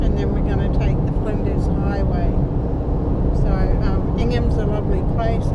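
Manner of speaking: talking through a numb mouth; slurred from the tooth just pulled; numb mouth after dentist. Real, not acted. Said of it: "I'm talking a bit funny because I've just had that tooth pulled".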